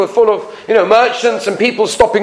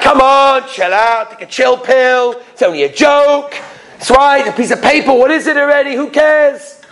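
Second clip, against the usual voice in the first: higher, exasperated brush-off; acted defensive husband, voice raised in pitch; dismissive protest; 4 semitones higher than usual. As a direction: wave the whole thing away. Husband brushes off angry wife.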